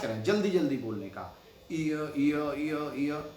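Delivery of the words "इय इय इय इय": "इय" said as a quick glide from i into a; drawn-out iya sound. Shown as a demonstration. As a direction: repeat "इय, इय" quickly, the ई melting into अ. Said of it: "जब आप बोलेंगे इय".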